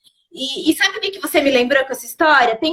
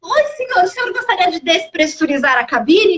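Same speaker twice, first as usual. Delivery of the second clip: sarcastically obliging flight attendant; raised-pitch, hammed-up courtesy; mock politeness; 2 semitones higher than usual. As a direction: play over-helpful service, dripping with irony. Sarcastic mock offer to smoker.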